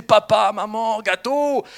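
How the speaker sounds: high, loud imitation of a toddler; child's first words. Children saying first words to parents, high mock toddler voice. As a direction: call them out like a proud little child. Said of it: "nos enfants qui disaient".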